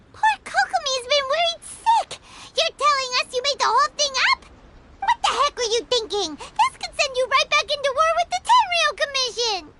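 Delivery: indignant scolding. Acted. To the soldier who faked the rumor, indignant. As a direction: scold him for risking war.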